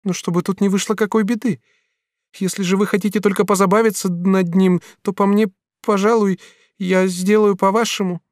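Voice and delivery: lightly voiced young woman, reproachful; young woman's voice. Katrin reproaching the master, lightly voiced woman.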